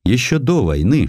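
ordinary delivery

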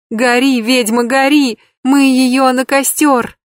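put-on high, loud child's voice, broken feverish speech; a small girl babbling in panic about a witch, slowed; frightened little girl. A narrator's reading. Terrified child raving about witch. (испуганный детский лепет)

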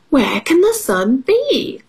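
storybook dog wondering aloud; asking dog. Acted. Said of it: "asked dog".

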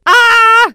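high loud shriek of terror; terrified scream. A narrator's reading. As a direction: scream as if seeing a ghost. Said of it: "заорала она". (дикий крик ужаса)

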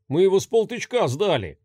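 authoritative. Acted. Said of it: "авторитетно заявил самый колоритный".

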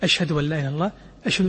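quiet, low shahada; soft murmur. Shown as a demonstration. Teacher repeating the hushed shahada softly. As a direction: say it under your breath. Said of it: "شوي شوي".

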